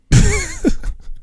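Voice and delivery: squeaky high laugh; high squeal laugh. Real, not acted. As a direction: let out a high little squeal. Nervous laugh after joke.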